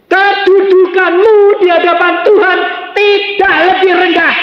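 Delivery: loud, high-pitched exhortation; full-force preaching. Acted. Preacher urging mothers to seek miracles, full-force shout. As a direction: preach it at the top of your voice.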